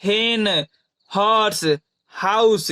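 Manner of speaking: slow, careful हेन; teacher modelling हेन slowly; slow example word. Shown as a demonstration. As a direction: draw हेन out for learners. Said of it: "जैसे".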